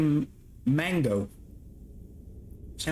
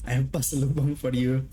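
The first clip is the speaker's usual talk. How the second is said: put-on Filipino parent accent; 3 semitones higher than usual. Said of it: "my parents really don't have an accent".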